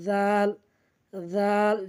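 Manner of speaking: জাল as Arabic dh, tongue on tooth tips; tooth-tip dhal. Shown as a demonstration. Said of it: "দুই দাঁতের আগার সঙ্গে লাগাইয়া". (দাঁতের আগায় জিভ রেখে জাল)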